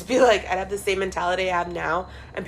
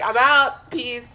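mock exit; 3 dB louder than usual. Imagining leaving her hometown, a louder breezy farewell. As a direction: throw it out breezily.

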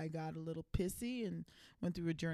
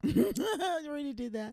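laughing; 10 semitones higher, 7 dB louder, faster than usual. Real, not acted. Mother laughs at repeated joke.

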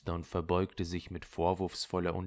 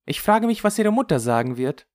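raised, emphatic concern; earnest; 11 semitones higher, 9 dB louder than usual. A narrator's reading. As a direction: put it to her seriously, louder and higher. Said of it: "sagte Rirette ernst". (ernst und nachdrücklich)

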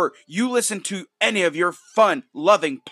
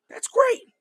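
sarcastic. Acted. Sarcastic echo of the praise.

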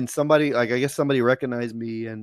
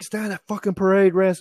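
imitated angry order; 7 semitones higher than usual. Corporal barking an order in retelling.

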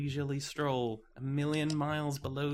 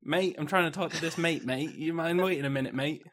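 impatient barista voice. Acted. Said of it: "I'll be that guy".

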